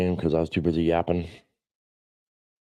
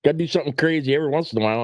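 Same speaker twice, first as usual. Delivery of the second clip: wife quoted; 9 semitones higher than usual. Retold or imitated. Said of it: "And she says".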